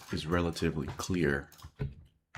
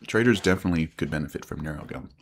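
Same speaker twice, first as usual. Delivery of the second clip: chewing gum; 6 dB louder than usual. Real, not acted. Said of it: "Sorry that you now hear me chewing gum".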